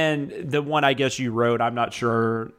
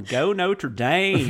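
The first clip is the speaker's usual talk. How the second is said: drawn-out, slow cheer for the team; slow Notre Dame cheer; 5 semitones higher, much slower than usual. Retold or imitated. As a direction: stretch out "Go Notre Dame" slowly like a mock fan. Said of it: "I need Danae watching games with me".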